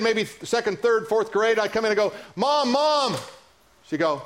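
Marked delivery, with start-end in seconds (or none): 2.3-3.2 put-on high-pitched child's call for mother; mock child's cry for mom, pitched way up; little kid calling Mom. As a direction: imitate a kid running in and calling out. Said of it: "as a little kid".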